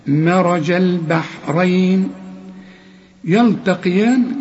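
"مرج البحرين" recited slowly; slow recitation. Shown as a demonstration. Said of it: "هنقول". (تلاوة بطيئة)

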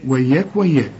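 "وياك" with thin, fronted a vowels as in everyday speech; light waw and ya. Shown as a demonstration. Teacher giving an everyday comparison, light vowels. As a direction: say "وياك" light and forward, twice. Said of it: "زي ما تقول وياك كده".

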